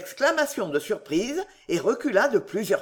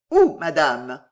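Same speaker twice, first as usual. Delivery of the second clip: louder, insistent repeat; pressing demand; 4 semitones lower, 7 dB louder, slower than usual. A narrator's reading. Suitor pressing the lady, loud and insistent. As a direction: push her for an answer.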